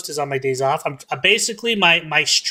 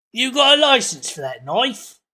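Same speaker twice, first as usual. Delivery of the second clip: vague, put-on half-Australian accent, pitched up; 7 semitones higher than usual. Reacting to a video, quipping in a vague Australian-ish accent. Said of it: "It's more Australian".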